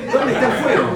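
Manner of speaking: high, loud, alarmed call with a laugh; alarmed crowd shout. Acted. Neighbours rush in asking the sage where the fire is, loud alarmed shout. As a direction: shout it like startled neighbours running in.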